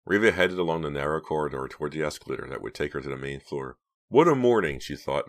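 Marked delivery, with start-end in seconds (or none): 4.1-4.8 high, loud, pleased exclamation; gleeful self-congratulation; self-satisfied. A narrator's reading. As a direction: exclaim it, delighted with yourself. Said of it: "very pleased with herself".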